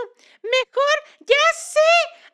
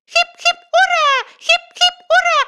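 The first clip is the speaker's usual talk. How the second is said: high, loud victory cheer; 5 semitones higher, 5 dB louder than usual. Acted. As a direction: hip hip hooray, full of joy. Cheering herself.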